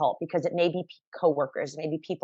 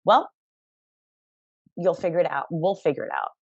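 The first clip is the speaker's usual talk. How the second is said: calm reassurance. Retold or imitated. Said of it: "It was a".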